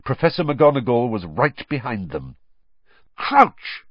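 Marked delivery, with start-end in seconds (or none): 3.2-3.9 sharp high shout of a name; shocked cry. A narrator's reading. Snape in the doorway, shocked shout. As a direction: Snape recognising the man, stunned. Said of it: "Snape said, stopping dead".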